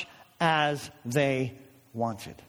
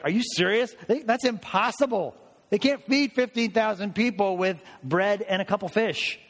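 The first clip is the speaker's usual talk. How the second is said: higher, mock-incredulous skeptic; the raised pitch of someone who thinks it's absurd; 6 semitones higher than usual. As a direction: scoff at it like a disbelieving critic. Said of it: "they're like".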